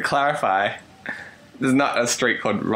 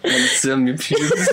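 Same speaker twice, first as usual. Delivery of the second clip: mock French accent; slower than usual. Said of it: "French isn't a bad go-to".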